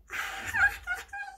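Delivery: shrill giggle in character; high-pitched diva giggle; high squealing laugh. Acted. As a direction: squeal with delight.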